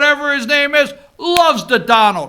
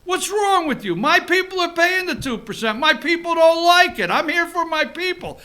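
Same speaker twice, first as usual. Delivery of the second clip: imitating Trump; 3 semitones higher, 4 dB quieter than usual. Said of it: "he looks at Trudeau".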